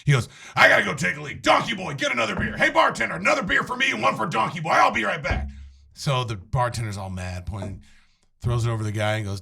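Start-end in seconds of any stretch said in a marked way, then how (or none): 0.6-5.5 pushy loudmouth, higher, quick on the orders; smug jerk barking orders on his way out; 1 obnoxious guy. Acted. The obnoxious guy orders another round before leaving, higher. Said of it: "He was committed to it".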